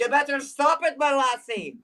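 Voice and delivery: muddled mock Celtic brogue; light scolding, half Scottish half Irish; Scottish-Irish accent. Performer unsure of the accent, muddled Scottish-Irish scolding. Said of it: "that's Scottish or Irish?".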